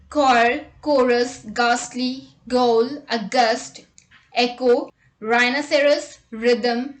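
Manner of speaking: "Choir" and "chorus" begin with a hard K, "ghastly" with a plain G, "rhythm" with a plain R; slow, clear list of silent-H words; silent H after C, G, R. Shown as a demonstration. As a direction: say "rhinoceros" as r-eye-noceros with no H. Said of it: "H is often not pronounced when it comes after C, G or R".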